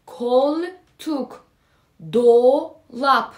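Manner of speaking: کل، توک، دو، لپ as kol, tok, do-lap; clear O examples. Shown as a demonstration. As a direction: drill دو with a full round "o", word by word.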